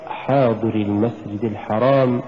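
"حاضر" with a short ri, ya dropped; without ya. Shown as a demonstration. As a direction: clip the ending of حاضر into المسجد. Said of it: "بدون ياء".

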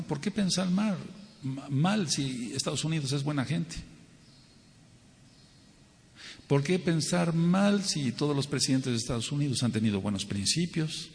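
mock-innocent rhetorical questions; a bit sarcastic. Speaker poses sarcastic questions to his audience, lightly sarcastic. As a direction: ask it with light sarcasm, feigning naive trust. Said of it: "una pregunta un poco sarcástica".

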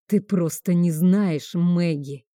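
ordinary delivery

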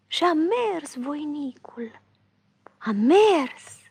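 hushed, slow whisper; storyteller's drawn-out whisper. A narrator's reading. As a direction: breathe the words out slowly. Hero's long weary climb.

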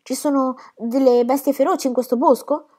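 put-on whispered, scared child in a dark wood; a little boy whispering his fear to his father; frightened whisper. A narrator's reading. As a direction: breathe it out, afraid of beasts. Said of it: "ebbe un po' paura".

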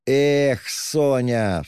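exasperated cry of her name; irritated cry. A narrator's reading. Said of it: "вскрикнул он раздражительно".

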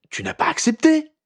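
high, alarmed question; panicked. A narrator's reading. Harry panics at Ginny's news, high and alarmed. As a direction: blurt it out in sudden alarm. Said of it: "S'affola-t-il".

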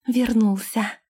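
mild happy exclamation in the princess's voice; exclaiming. A narrator's reading. Princess flings open the door expecting him, exclaiming. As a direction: call out as if he has come back to you. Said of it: "воскликнула она".

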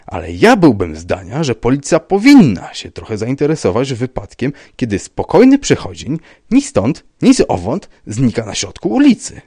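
sharp. A narrator's reading. Rybka telling the police to take interest, sharp. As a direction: argue sharply that action is owed. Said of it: "powiedział ostro".

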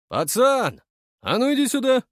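high, loud call across the street. A narrator's reading. Thug calls the boy over, a loud high shout. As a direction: bark an order at a kid.

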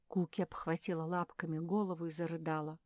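ordinary delivery

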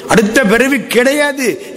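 a light hint of a benevolent god; god Shiva speaking. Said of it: "சிவபெருமான்".

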